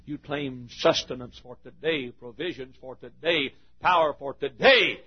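slow, measured sermon refrain; deliberate pulpit rhythm; slow preaching cadence. Real, not acted. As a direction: lay each "for today" down like a promise.

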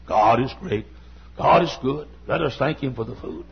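low, simple pulpit pronouncement; Lee Robertson. Retold or imitated. Quoting an admired preacher's very simple sermon, deep-voiced. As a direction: lightly imitate a deep-voiced old-time preacher. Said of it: "his sermons are usually very simple".

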